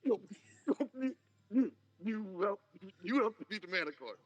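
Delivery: can't believe what he heard; incredulous. Acted. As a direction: shopkeeper doubts the young customer's manticore tale. Shopkeeper doubts the boast.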